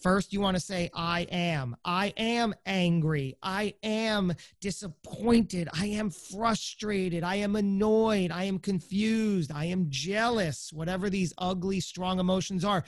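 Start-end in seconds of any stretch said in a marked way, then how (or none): 1.0-10.7 slow, measured list of admissions; deliberate self-statements. Shown as a demonstration. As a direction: spell out each feeling slowly and deliberately. Models statements to say to yourself.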